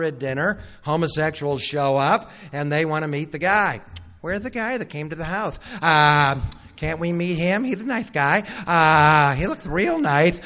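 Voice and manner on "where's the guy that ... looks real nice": leering mob voice. Retold or imitated. Mob at the old man's door demanding the guest, sly put-on voice. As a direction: tease it out like a sneering crowd at the door.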